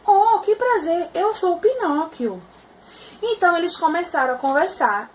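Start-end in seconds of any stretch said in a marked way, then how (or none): 0.1-2.4 higher, eager little puppet voice; Pinocchio voice. Acted. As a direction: greet him like a delighted wooden boy.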